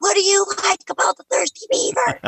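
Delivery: shrill, very high screaming voice. Describing shouting questions during crowd interviews, retelling a scream. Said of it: "I'm basically screaming".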